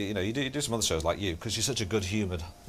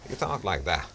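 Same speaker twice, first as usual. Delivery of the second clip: Terry Wogan; 5 semitones lower than usual. Shown as a demonstration. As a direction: go up and down, sinking right down. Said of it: "so when you do Terry Wogan".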